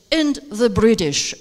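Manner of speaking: "British" falls to close the list; falling final tone. Shown as a demonstration. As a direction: drop the pitch on "British" as the last item. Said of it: "going to use the falling tone".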